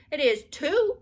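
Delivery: put-on high, loud defiant child voice. A narrator's reading. Ramona defiantly answering her mother. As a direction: fire it back like a stubborn toddler. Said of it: "said Ramona defiantly".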